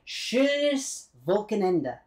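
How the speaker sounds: Schönes Wochenende in slow German; German pronunciation. Shown as a demonstration. Showing viewers a German greeting, Schönes Wochenende said slowly in German. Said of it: "So you can say".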